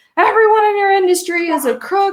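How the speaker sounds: very high, shrill, accusing yell. Speaker retelling how a man yells at them every day, imitating someone yelling. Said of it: "but he's yelling at me like".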